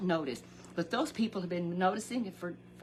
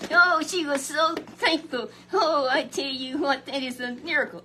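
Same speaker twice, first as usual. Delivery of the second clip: preacher moved to tears by her thanks; tearful joy; 7 semitones higher, 7 dB louder than usual. Acted. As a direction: let the voice break with joy. Overcome describing her thanks.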